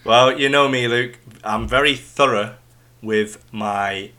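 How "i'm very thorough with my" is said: slipping into a Yorkshire accent; broad Yorkshire vowels, unplanned. Real, not acted. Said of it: "did I just go Yorkshire then?".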